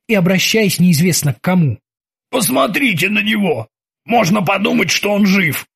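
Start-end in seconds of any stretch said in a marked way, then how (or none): 2.3-5.7 scornful. Acted. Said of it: "огрызался Крюгер".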